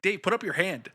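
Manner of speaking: high shout across the theater; retold shout. Guy shouts to his friend across the seats, high call. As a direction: call to Dave across the room. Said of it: "Or I screamed out".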